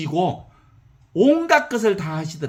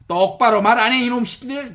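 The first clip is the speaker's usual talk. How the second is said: scolding master; 5 semitones higher, 4 dB louder than usual. Acted. Choi Jinsa scolding.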